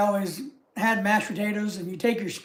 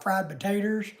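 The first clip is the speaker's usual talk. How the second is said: light Southern US accent on "fried potatoes"; 4 dB quieter than usual. Shown as a demonstration. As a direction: say "fried potatoes" the Southern way, "frahd puh-tay-terz". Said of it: "put my southern accent in that".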